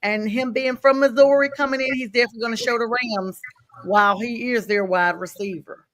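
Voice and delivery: talking around gum under the tongue; words blurred by gum in the mouth. Real, not acted. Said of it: "don't forget to chew your gum".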